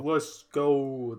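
echoed meme catchphrase impression; a rapper. Co-host echoing the meme back, rapper impression. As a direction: lightly imitate the rapper's drawn-out ad-lib. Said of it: "that's your one rapper".

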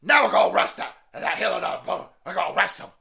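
high, loud mocking whine of nervous officials; high sarcastic mock voice of dithering officials. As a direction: mimic them high and loud, fretting. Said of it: "And so they're like".

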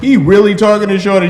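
incredulous aside. Retold or imitated. Friend retelling his shock at a woman flirting, incredulous. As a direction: ask it like you can't believe it.

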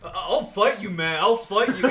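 loud slurred threat; belligerent drunk. Acted. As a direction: pick a drunk fight. Drunk Obi-Wan challenges.

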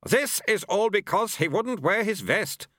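high-pitched, firm nagging voice; firm scolding wife. A narrator's reading. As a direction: scold firmly, pitched well up. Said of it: "said Missus Waugh firmly".

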